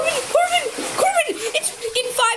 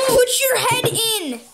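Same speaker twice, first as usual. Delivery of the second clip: urging shout; 3 semitones higher, slower than usual. Real, not acted. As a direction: push him to go under. Urging friend in ice bath.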